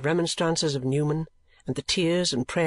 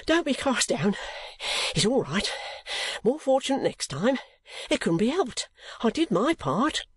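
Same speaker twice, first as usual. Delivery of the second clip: put-on higher old man's voice, soothing but winded; consoling old clerk; 9 semitones higher than usual. A narrator's reading. Newman comforting Nicholas after the escape, reassuring. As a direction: cheer him up kindly.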